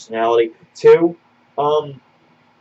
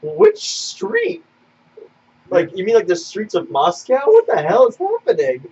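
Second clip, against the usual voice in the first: baffled; 4 semitones higher, slower than usual. Retold or imitated. Baffled reaction to the kid.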